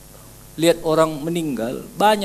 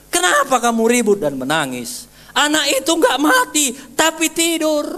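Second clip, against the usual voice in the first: higher, rising into a gentle rebuke; Jesus chiding the noisy mourners, voice climbing high; Jesus questioning mourners; 10 semitones higher than usual. Acted. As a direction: ask why they are wailing.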